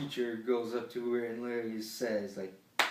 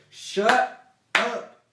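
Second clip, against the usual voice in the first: piercing scream, much higher and louder; screaming shut up; 16 dB louder than usual. Retold or imitated. Girl in class screams at him to shut up, piercing high yell. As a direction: shriek it at the classmate like she's lost it. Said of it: "she fucking screams".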